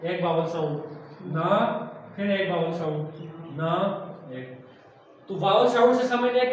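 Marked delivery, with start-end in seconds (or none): 1.3-1.5 ना sounded out on its own; isolated syllable. Shown as a demonstration. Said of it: "बनाना तो उसने तीन हिस्सों में तभी तकसीम किए". 3.6-3.7 ना sounded out on its own; last piece of a split word, ना, held apart; isolated syllable. Shown as a demonstration. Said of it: "बनाना तो उसने तीन हिस्सों में तभी तकसीम किए".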